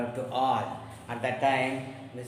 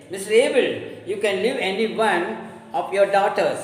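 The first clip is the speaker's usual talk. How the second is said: louder, higher, fast plea; urgent plea; 5 semitones higher, 5 dB louder than usual. Acted. Neighbour urgently pleading with Mr Abel. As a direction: press him urgently. Mrs Ben pleads loudly.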